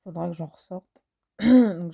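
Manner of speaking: hoarse, cracking voice. Real, not acted. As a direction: voice breaking up a little. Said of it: "j'ai un peu la voix cassée".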